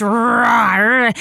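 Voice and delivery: a light playful rawr; mock bear roar, not too scary; lightly voiced cartoon bear growl. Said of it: "you're channeling the bear".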